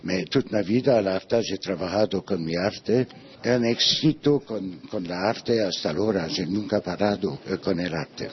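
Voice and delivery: non-native Spanish with a foreign accent; halting Spanish with a foreign accent. Real, not acted. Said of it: "mi español está muy mal".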